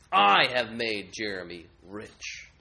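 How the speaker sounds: slow, loud, gloating idol boast. Acted. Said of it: "And they boast".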